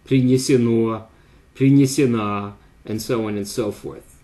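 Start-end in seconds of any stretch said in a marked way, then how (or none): 0.0-2.5 принесено, принесена read out deliberately; Russian participle examples. Shown as a demonstration. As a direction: drill принесено and принесена for stress. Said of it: "N stress in the past passive participle".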